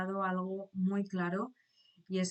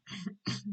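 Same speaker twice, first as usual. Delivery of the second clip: choking cough; 5 dB quieter than usual. Real, not acted. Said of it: "Perdón, que me ahogo".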